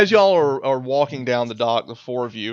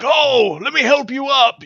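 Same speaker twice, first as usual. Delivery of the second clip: much higher, bright offer of help; friendly helper voice; 12 semitones higher, 5 dB louder than usual. Acted. Stranger offering to help the survivors, higher helpful voice. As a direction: sweetly offer a hand up.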